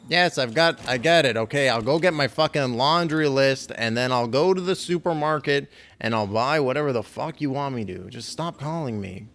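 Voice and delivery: put-upon griping at a nagging caller; exasperated. Acted. Player answering nagging game calls, exasperated.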